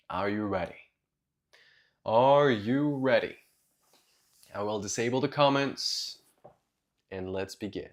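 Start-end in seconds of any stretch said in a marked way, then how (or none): 0.1-0.7 lower, softer check-in; low-key question. Real, not acted. Asks first low, then repeats louder. 2.0-3.4 rallying question. Real, not acted. Repeats the question to rally class.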